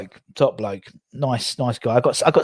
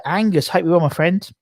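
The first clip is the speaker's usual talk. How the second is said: light put-on Australian lilt rising higher; mock Australian accent; 7 semitones higher than usual. Greeting Angus in Australia, lightly put-on Australian accent. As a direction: greet him in a hint of Australian. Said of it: "I said it with a different accent".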